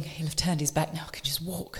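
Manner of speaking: hushed thinking to herself; quiet inner thought. Retold or imitated. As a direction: murmur it inwardly. Inner thought while running.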